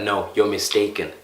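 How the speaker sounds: polite softened disagreement. Shown as a demonstration. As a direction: ease off with "No, you're mistaken". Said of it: "wouldn't that feel different".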